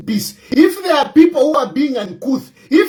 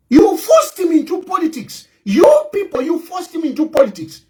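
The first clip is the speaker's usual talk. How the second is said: angry shout; 4 semitones higher than usual. Real, not acted. Ranting at opponents.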